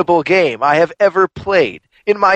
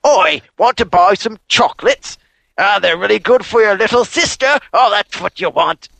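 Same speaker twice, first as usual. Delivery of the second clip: put-on pushy Bronx street-seller accent, a bit higher; 6 semitones higher than usual. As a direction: hawk the chocolates like a Bronx hustler. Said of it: "the weird Bronx man who's selling chocolates".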